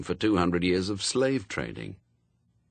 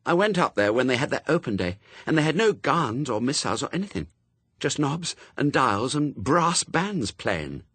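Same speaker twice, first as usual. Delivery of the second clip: put-on higher, quick, bossy girl; girl Pepper, insistent; 6 semitones higher than usual. A narrator's reading. Pepper arguing the route with Adam, higher insistent girl. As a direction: press the route with eager insistence.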